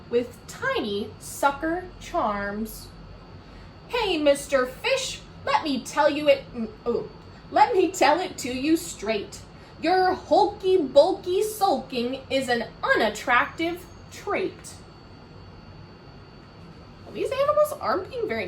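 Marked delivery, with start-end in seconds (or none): 3.9-14.7 higher, louder lecturing octopus; bossy octopus. Acted. Octopus to Mister Fish, a light bossy voice. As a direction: lay it out straight to the fish.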